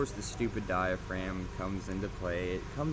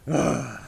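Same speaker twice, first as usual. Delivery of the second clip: exasperated ugh; annoyed grunt; 3 semitones higher, 9 dB louder than usual. Shown as a demonstration. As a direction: grunt like someone annoyed you. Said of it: "you'll just be like".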